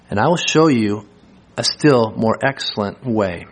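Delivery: measured rhetorical questions from scripture; deliberate scripture reading. Acted.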